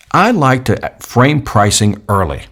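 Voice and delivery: slow, weighted statement; slow emphatic. Shown as a demonstration. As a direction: lay it down slowly. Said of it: "Listen to what I just said".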